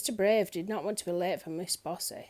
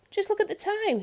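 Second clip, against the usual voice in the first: fake surprise; 12 semitones higher, 4 dB louder than usual. A narrator's reading. Brave escapes the dare.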